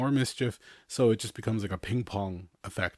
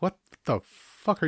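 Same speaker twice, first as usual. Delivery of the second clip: exasperated yell; 9 semitones higher than usual. Retold or imitated. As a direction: snap at the marker-throwing toddler. Parent yelling at toddler.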